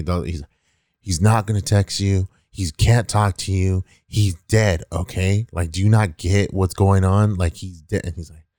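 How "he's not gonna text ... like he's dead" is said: retold exasperation, emphatic key words; mildly fed-up cop laying it out; exasperated cop. Cop telling a kid off for talking to the dead, mildly exasperated. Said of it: "fucking infuriated".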